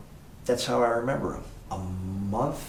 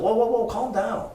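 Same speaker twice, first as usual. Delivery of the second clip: calming her down; 14 semitones higher, 7 dB louder than usual. Retold or imitated. Calming the panicked maid.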